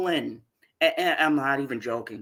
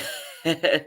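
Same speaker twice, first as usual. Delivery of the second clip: exasperated laugh. Real, not acted.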